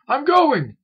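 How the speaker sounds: loud, high yell on the run; shout. A narrator's reading. Helper shouting back as he runs to another room, high yell. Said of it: "he shouted as he hopped over the machines".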